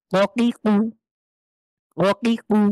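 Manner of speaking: ককিকু with the tongue root pushed up; model reading. Shown as a demonstration. Teacher models ককিকু for students, slow and clear. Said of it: "কিভাবে পড়ছি আমি".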